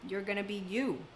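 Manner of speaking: a soft, emotional laugh into the words; half laugh, half tearing up; laughing softly, close to tears. Real, not acted. Telling listeners they will be themselves, laughing softly. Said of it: "And now I'm gonna cry".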